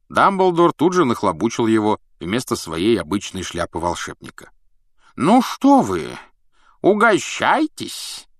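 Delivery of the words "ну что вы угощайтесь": high, slow, beaming host voice; lightly voiced cheerful old wizard. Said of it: "с сияющей улыбкой".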